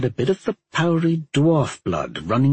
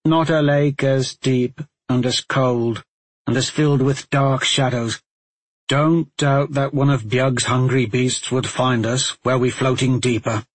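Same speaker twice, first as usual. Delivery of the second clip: somber reverent. Acted. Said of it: "more reverential and somber tone".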